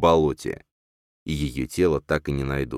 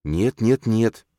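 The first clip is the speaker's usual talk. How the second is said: tender but firm; 7 semitones higher, 4 dB louder, much slower than usual. Acted. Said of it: "нежно, но твёрдо".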